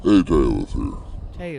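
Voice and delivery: half speed, stretched words; slowed down. Shown as a demonstration. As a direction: drag every word out slowly. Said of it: "I'm gonna slow it down".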